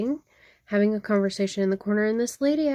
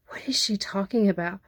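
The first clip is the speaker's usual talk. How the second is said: whispered thought; 2 semitones lower than usual. Retold or imitated. Boy's confused look voiced.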